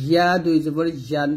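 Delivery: ইয়া and ইয়ান with a y from mid-tongue; tongue middle toward palate on ইয়ান; palatal ya. Shown as a demonstration. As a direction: clear y glide in ইয়া. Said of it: "তালুর সঙ্গে লাগা বলতে হবে".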